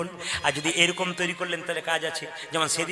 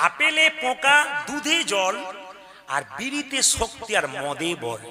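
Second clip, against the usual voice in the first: laughing recital; 4 semitones higher than usual. Retold or imitated. Preacher repeats the drunk's rhyme to the crowd, laughing. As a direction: rhyme restarted high with laughter, then settling. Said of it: "ও আমাকে কি সুন্দর বলছে".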